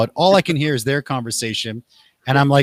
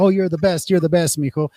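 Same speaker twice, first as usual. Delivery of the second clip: higher, gushing proud mother; doting mom; 5 semitones higher than usual. Retold or imitated. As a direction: praise the kid no matter what.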